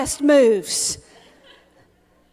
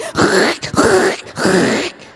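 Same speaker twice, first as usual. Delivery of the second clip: squeaky pants noise; 7 semitones lower than usual. Retold or imitated. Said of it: "my pants that are like".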